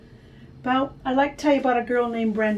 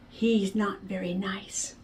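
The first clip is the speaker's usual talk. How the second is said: unvoiced, slow secret whisper; 2 semitones lower, 5 dB quieter, slower than usual. Friend whispering gossip about a boy, hushed. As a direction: let it out like a secret.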